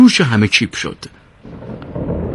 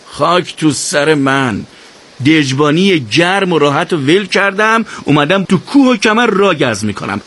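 moaning; 3 semitones higher than usual. Acted. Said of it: "ناله کنان گفت".

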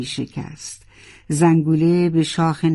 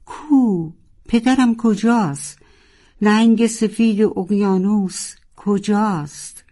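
high, urgent calls for father; desperate high-pitched asking; frantic question; 5 semitones higher, slower than usual. Acted. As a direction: demand to know, rising panic. Narwhal suddenly remembers, demands father.

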